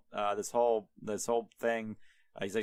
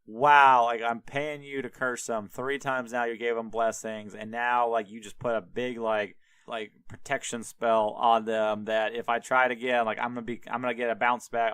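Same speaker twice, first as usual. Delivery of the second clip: louder, exasperated rant at the hired prophet; furious outburst; 4 dB louder than usual. Retold or imitated. The king rants at Balaam for blessing his enemies, loud and exasperated. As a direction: blow up at him, mock furious. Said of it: "loses his shit".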